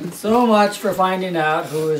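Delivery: chuckling through the quip; a wry laughing aside; amused chuckle. Real, not acted. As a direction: laugh it off lightly. Joke about the bishop slugging.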